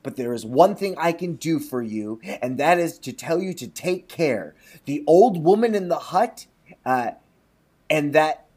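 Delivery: measured storybook reading; lightly performed storyteller; story narration. A narrator's reading. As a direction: read it like a folk tale aloud. Reads the mouse's warning.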